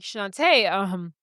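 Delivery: halting, flustered stammer, lightly acted; mildly awkward, searching for words; caught out. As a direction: stumble through it like someone caught red-handed. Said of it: "He has egg on his face".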